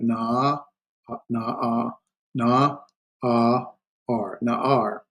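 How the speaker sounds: na, a, ar in separate slow pieces, then joined as na'ar; silent ayin, broken down. Shown as a demonstration. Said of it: "This ayin has no pronunciation, so you got".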